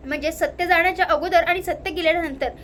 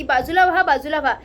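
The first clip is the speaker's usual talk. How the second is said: louder warning call, then a bit less loud; calling out to people ahead to move aside; calling out to clear the road; 5 dB louder than usual. Retold or imitated. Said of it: "जोरजोरात ओरडून सांगत असते". (लोकांना बाजूला व्हा म्हणून ओरडून सांगणे)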